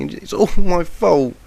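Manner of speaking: high, loud and slow, leaning on my; anguished scream. A narrator's reading. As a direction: cry "and it's all my fault" out as a loud, slow, high wail. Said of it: "the yellow Pegasus screamed".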